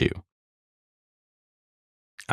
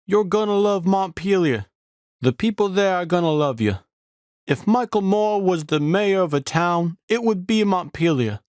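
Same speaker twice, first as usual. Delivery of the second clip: high, eager mock cyclist voice, much higher; imitating the cyclists; 13 semitones higher than usual. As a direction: gush about Montpelier in a squeaky put-on voice. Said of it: "They kept saying".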